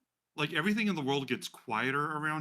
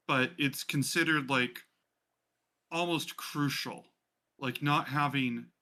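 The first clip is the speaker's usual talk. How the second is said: The speaker explaining; slower than usual. Acted. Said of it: "she goes".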